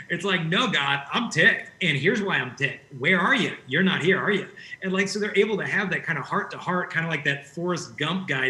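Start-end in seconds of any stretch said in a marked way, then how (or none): 0.5-4.5 angry prayer. Retold or imitated. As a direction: act out a ticked-off prayer, pushing hard on I'm ticked. Voicing an angry prayer to God.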